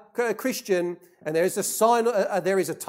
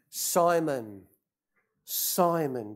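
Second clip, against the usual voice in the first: slow, lowered, tender address; solemn yet affectionate; 5 semitones lower, 4 dB quieter, slower than usual. Retold or imitated. Jesus gently warning his disciple Peter, solemn yet affectionate. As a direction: softly call him by name, gravely. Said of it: "solemn yet affectionate conversation".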